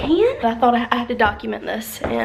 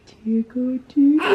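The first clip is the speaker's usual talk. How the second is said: high playful tickle talk; giggly tickle attack; 8 semitones higher than usual. Real, not acted. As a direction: giggle while tickling him. Tickling baby.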